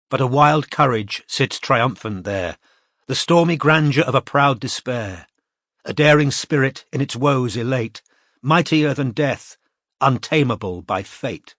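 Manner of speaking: slow, measured recital of verse; a solemn poem recital; poem reading. A narrator's reading. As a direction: lift the lines like an epigraph. Reads chapter epigraph poem.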